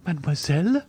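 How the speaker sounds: taken aback, pitch rising at the end; indignant cry. A narrator's reading. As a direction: throw the title back as a question. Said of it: "cried Valentine".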